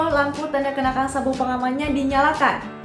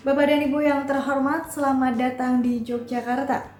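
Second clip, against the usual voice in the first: polite after-landing PA voice; flight attendant. Shown as a demonstration. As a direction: welcome them like a cabin announcement. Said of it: "Kayak gini bunyi announcement-nya".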